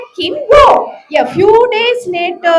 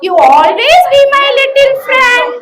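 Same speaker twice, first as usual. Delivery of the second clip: happy grateful lion; 4 semitones higher than usual. Acted. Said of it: "He was very happy".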